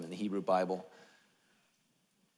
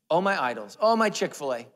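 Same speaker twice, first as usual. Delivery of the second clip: higher, louder melodramatic moan; mock lament; 5 semitones higher, 6 dB louder than usual. Pastor mimicking reluctant followers, mock lament. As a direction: bewail it as a comic tragedy. Mocking objections, repeated.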